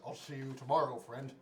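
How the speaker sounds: low-pitched character voice. Acted. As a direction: drop down into a character's voice. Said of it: "Wait, character voice".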